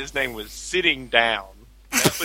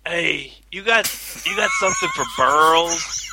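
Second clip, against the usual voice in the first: cartoonish Fat Albert impression of a customer; retelling a pharmacy customer as Fat Albert; 3 semitones higher than usual. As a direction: put on Fat Albert's voice, a bit higher. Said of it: "adopted Fat Albert's voice".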